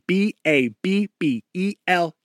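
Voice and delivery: B A B B E L said letter by letter, evenly spaced; spelling it out. Shown as a demonstration. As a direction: spell B A B B E L one letter at a time. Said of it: "That is spelled".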